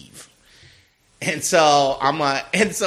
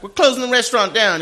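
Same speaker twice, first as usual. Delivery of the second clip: mock announcement; 7 semitones higher, 4 dB louder, faster than usual. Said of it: "she's like".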